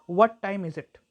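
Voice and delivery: "What time" stressed, "is it" lighter; sentence stress demo. Shown as a demonstration. Teacher showing stress in a sentence, stressed "What time". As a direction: punch "What time", let "is it" fall away. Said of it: "stress में भी देख सकते हैं".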